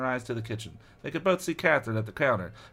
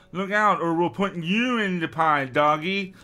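high, loud, slow witchy threat; hammed-up witch voice; threatening aunt; 5 semitones higher, 4 dB louder, slower than usual. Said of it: "she exclaimed".

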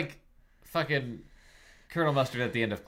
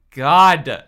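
high, exasperated wail; 7 semitones higher, 8 dB louder than usual. Acted. Halle protests being made to trade, wailing. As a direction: burst out, then keep complaining high. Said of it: "Halle wailed".

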